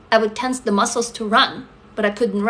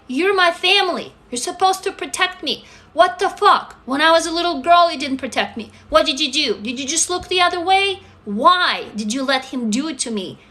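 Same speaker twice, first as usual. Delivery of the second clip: raised, high-pitched indignant demand; angry confrontation; 4 semitones higher than usual. Retold or imitated. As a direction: confront the family with real hurt. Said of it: "I was so angry".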